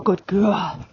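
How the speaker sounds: praising the horse. Real, not acted. Praising her horse while riding.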